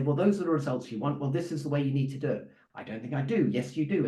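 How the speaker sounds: mock boardroom back-and-forth, brisk and assertive; standing up to them. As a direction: argue back firmly, holding your ground. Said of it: "stand up to them and say".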